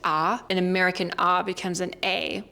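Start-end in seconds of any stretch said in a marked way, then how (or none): 0.0-0.4 "ah" as an open German vowel. Shown as a demonstration. Teacher contrasting with American, German-style open "ah". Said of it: "in German, you just pronounce it". 2.0-2.4 "A" flat and nasal; nasal American A. Shown as a demonstration. Teacher contrasting with German, nasal American "A". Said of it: "which is more nasal".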